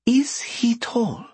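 breathy hushed whisper; slow, secretive whisper. Acted. Wizard asks quietly, secretive.

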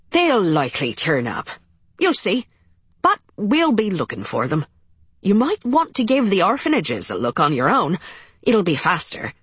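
thick Irish brogue, patient; Irish policeman, calm and sympathetic; Irish accent. Acted. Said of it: "Officer Colum Farrell's accent was thick Irish".

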